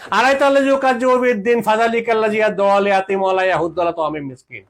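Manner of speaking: recites the verse in flowing Arabic cadence; Quran recitation. Shown as a demonstration. Preacher quoting Surah Maun to listeners, recited. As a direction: chant the Quranic lines in one breath. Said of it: "আল্লাহ সূরা মাউনে বলে দিয়েছেন".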